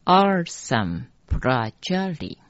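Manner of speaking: Arsan Prajali with "ar-san" joined and "pra" blended; mantra pronunciation. Shown as a demonstration. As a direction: sound out Arsan Prajali in two units. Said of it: "再一次".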